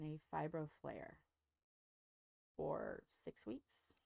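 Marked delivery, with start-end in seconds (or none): 2.6-3.9 slow whispered admission. Real, not acted. Telling listeners about her six-week flare, a slow whisper. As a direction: drop to a slow confiding whisper.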